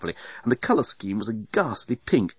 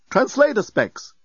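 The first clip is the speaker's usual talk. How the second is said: unhappy robot; 12 semitones higher, slower than usual. A narrator's reading. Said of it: "explained the bellbot unhappily".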